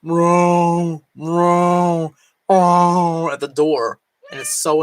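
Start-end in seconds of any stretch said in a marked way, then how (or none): 0.0-3.3 imitating cat meow. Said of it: "he'll go".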